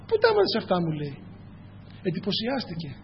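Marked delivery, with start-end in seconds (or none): 0.1-0.8 amazed retold question. Brother amazed at new words.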